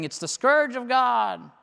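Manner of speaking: a hint of a fire-and-brimstone preacher; preacher's warning. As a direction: intone it like a doom preacher. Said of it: "preachers on Tuesday are saying".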